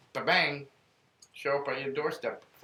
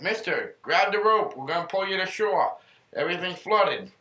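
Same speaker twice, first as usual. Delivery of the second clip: shouting from helicopter; 6 semitones higher, 6 dB louder than usual. Retold or imitated. Helicopter crew shouting over noise.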